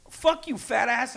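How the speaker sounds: high, loud and slow mock yell; retold yell. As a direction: bellow the insult across the room. Retold insult shouted in story.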